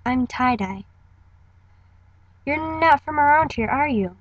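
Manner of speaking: cheery girl meeting a newcomer, lightly acted; Tie-Dye audition read. Auditioning as Tie-Dye, greeting a stranger, lightly voiced. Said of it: "here's me trying out for tie-dye".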